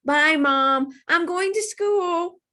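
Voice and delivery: high, loud goodbye on the run; girl yelling goodbye to mom running out. A narrator's reading. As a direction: shout it over your shoulder. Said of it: "yelled at her mom".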